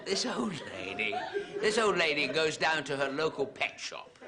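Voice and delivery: giggling through the words, high and loud; trying to talk past his own laughter; laughing. Real, not acted. Comic to the audience, still laughing at his own joke. Cracking up mid sentence.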